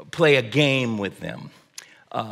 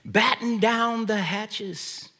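higher mock sea captain barking orders; playful captain's command; 8 semitones higher than usual. Dad in the car playing spaceship captain for kids, mock yell. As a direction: play ship captain calling to the crew. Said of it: "I would yell out something like".

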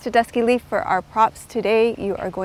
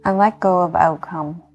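guided meditation. Acted. Yoga teacher talking listeners into healing rest, calm meditation voice.

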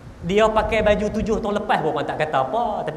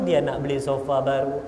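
sulky drop; 4 semitones lower than usual. Acted. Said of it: "Sebab isteri saya".

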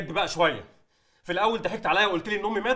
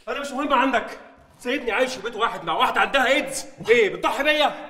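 louder, slowing into a bitter accusation; bitter anger; 3 semitones higher, 4 dB louder than usual. Acted. Son accuses father of sacrificing him, bitter and loud. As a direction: spit it out, hurt and angry.

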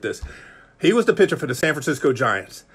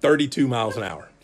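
laughing in disbelief; 2 semitones lower than usual. Real, not acted. Preacher laughing at his own weak pitch. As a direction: chuckle through the number.

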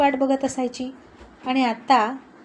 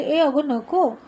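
a mild shout, a little higher and louder; 4 semitones higher, 4 dB louder, much slower than usual. Acted. Arya stopping Madhu from telling her mom, mild shout. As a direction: call out a quick alarmed no. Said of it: "ओरडून म्हणाली".

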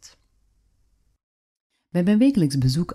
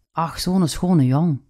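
Gents dialect; 3 semitones higher, slower than usual. Retold or imitated. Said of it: "in haar sappige Gengse dialect".

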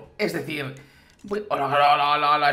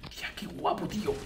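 awed whisper; 10 dB quieter than usual. Real, not acted. Admiring new map details.

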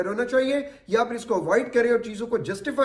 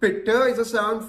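slow syllable breakdown; much slower than usual. Shown as a demonstration. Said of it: "जैसे मैं word बोल रहा हूं ब्यूटीफुल".

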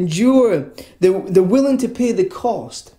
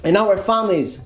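threatening crowd; 3 semitones higher, slower than usual. Acted. Preacher voices townspeople threatening Christians, slow mock indignation. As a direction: draw out the accusation like an outraged townsperson. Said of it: "people threatening you".

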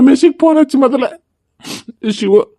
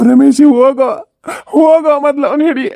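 panicked, crying plea; distraught and pressing; tearful urging. Acted. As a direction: urge him to run after him, through tears. Father urges Ramesh after grieving man.

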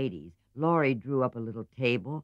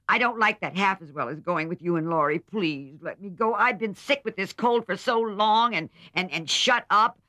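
much higher, louder whining plea; pleading; 11 semitones higher, 6 dB louder than usual. A narrator's reading. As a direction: beg pathetically like a sick child. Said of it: "pleaded Amy".

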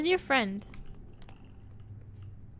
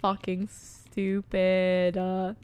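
low slow grumble; 8 semitones lower, much slower than usual. Real, not acted.

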